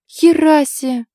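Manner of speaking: stunned loud outburst; loud exclamation. A narrator's reading. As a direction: blurt it out loud in disbelief. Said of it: "громко воскликнула".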